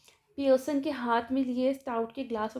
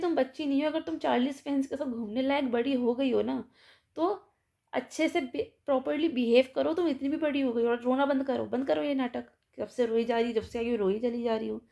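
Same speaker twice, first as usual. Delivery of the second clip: a mother telling off her daughter, firm and steady; mildly raised and stern, no real shouting; fed-up mother lightly voiced; stern, firm scolding. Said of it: "शांत लेकिन सख्त में बोलती है".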